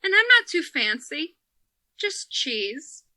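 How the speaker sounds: put-on a gentle, modest old man ordering. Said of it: "he's like".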